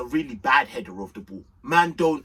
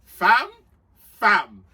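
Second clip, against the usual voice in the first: ecstatic yell; 11 semitones higher, 5 dB louder, much slower than usual. Retold or imitated. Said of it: "I said".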